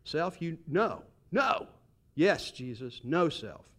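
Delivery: firm self-scolding, pitch rising on "no"; talking to oneself. Acted. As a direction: tell yourself no, firmly. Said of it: "like you're talking to yourself".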